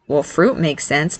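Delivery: low, slow sarcastic aside; snarky. Acted. Nick needles his brother about berries, snarky. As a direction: drop the pitch and drag out the jibe. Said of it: "Nick snarked".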